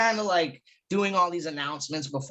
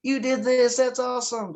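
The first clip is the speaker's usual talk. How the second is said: gushing fanboy; 6 semitones higher than usual. Retold or imitated. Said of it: "than being like".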